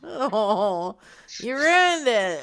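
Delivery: loud laughing complaint. Real, not acted. Laughing after the call is lost.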